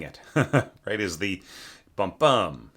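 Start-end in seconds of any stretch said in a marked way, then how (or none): 1.9-2.7 "bum bum" with the second "bum" stressed; emphasis on second beat. Shown as a demonstration. Teacher shows the fun emphasis of the yell, second "bum" stressed. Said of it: "There's this nice emphasis".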